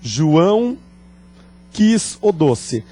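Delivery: quis o doce, said slowly and clearly; slow demo. Shown as a demonstration. Teacher reading the example sentence slowly to students. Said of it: "Vejam isto".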